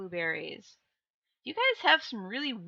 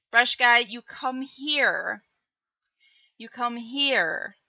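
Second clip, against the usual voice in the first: slow mock summons; 5 dB louder, slower than usual. Calling a chatter over.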